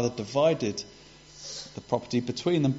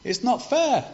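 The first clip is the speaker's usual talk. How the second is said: high, louder cry of unfairness; a sulking older son complaining to his father; indignant protest; 11 semitones higher, 4 dB louder than usual. Retold or imitated. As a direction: wail that it isn't fair. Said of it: "he's saying".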